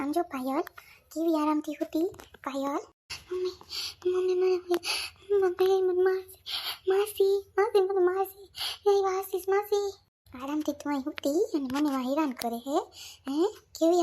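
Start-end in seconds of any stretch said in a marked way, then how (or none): 3.3-9.9 put-on frightened child. Frightened girl crying out to her mother, high panicked pleading. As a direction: plead for mummy as if about to be hit. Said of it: "કેવી બિસાડી ગભરાઈ ગઈ".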